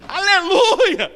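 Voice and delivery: high, drawn-out holler back; loud stretched call in reply; answering shout. Retold or imitated. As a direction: shout back up to someone far away. Acted back-and-forth shouting across a hall.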